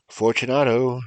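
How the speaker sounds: high, loud call into the dark; calling again. Acted. Narrator calling into the sealed niche, high and loud. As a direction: shout the name into the niche. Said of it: "I called again".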